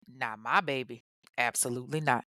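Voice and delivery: a hint of a stern protective mama; protective mother. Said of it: "mama stepped in and said".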